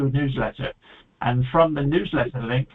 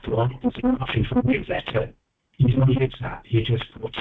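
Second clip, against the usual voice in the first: underwater. Real, not acted. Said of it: "you sound like you're underwater".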